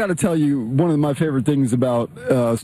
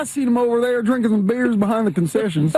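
higher-pitched voice for an imagined witness; mock fan reply; 8 semitones higher than usual. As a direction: play the guy tattling on who was drinking. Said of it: "And he's like".

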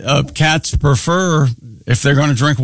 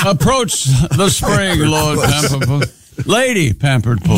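lightly hammed-up British formality; mock British. Co-host summoning the cat to water, mock British accent.

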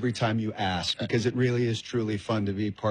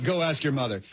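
mildly bitter brush-off; faster than usual. Acted. Stepdad passing the kid to mother, bitter. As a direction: hand it off with a touch of bitterness. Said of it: "like, bitterly".

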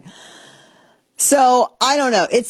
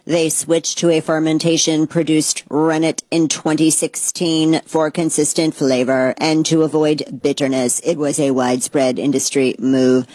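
robot voice; 3 semitones lower than usual. Pretend. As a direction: read it like a dry robot. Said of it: "I'm just gonna say it in a robot voice".

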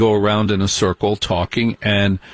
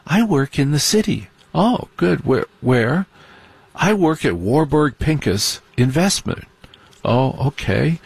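mock preppy; 3 semitones higher than usual. Voicing preppy partygoers.

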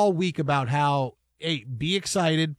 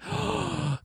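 sharp intake of breath in awe; awed gasp; 12 semitones higher, 8 dB quieter than usual. Retold or imitated. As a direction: gasp as if seeing a treasure. Acts out awed reaction at seeing cans.

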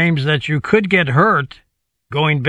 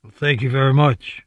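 lightly voiced rock-and-roll star catchphrase; a singer; 3 semitones lower than usual. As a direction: say it as a slight celebrity impression. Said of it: "That's my singer impression".

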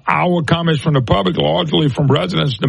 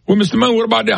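lightly voiced questioner, pitched higher; acted questioner; 5 semitones higher, faster than usual. Listener questioning the host, lightly voiced questioner. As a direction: put a slightly higher voice on the questioner. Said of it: "And you start saying".

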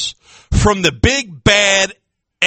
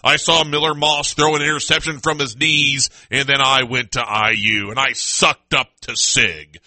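mocking imitation; 6 semitones lower than usual. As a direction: drag it out low to mock him. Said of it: "He's like".

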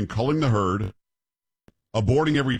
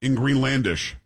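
normal talking voice

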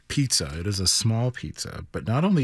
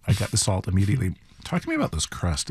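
chewing while he talks; mouth full; faster than usual. Real, not acted. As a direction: talk through a bite of food. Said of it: "I don't wanna talk too much with my mouth full".

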